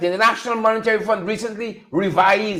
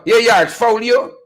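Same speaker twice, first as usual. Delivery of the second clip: Rickford Burke impression; slower than usual. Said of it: "In my Rickford Burke voice".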